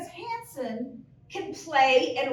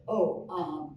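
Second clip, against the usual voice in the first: Larry's voice; 6 semitones lower than usual. Retold or imitated. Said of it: "And he goes".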